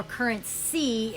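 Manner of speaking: "current see" said as two separate words; split-word pronunciation. Shown as a demonstration. Speaker unpacking currency for listeners, "current see" split in two. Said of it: "the ability to see in the current moment".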